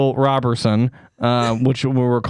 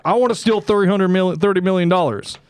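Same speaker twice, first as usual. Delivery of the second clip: higher, lightly voiced uncle; pitched-up comic uncle; scheming uncle; 5 semitones higher than usual. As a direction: announce the heist as the uncle. Acts uncle announcing the heist.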